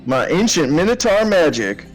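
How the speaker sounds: hammed-up. Player hams up minotaur line.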